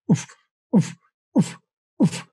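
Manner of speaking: deep country-singer style oof; low goose cluck imitation. Shown as a demonstration. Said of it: "that singer's voice inflection".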